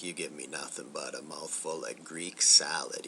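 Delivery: retold line in a whisper; whispered quote. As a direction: breathe the insult out in a whisper. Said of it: "and he's like".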